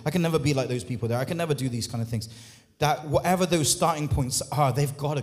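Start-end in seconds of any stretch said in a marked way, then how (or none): 0.0-2.3 quick, lower mumbled excuses; mock excuses. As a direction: rush the excuses in a low voice. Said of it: "all these excuses that we come up with".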